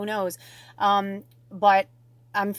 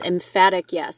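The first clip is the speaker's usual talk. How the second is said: "Emphatic yes" said firmly and louder; 2 semitones lower, 5 dB louder than usual. Retold or imitated. Spirit's answer to the viewer, "Emphatic yes" said emphatically. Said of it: "Spirit says".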